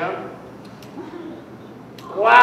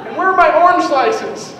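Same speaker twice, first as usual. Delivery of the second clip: 1 whiny shout; 6 semitones higher, 5 dB louder than usual. Retold or imitated. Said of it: "You're like".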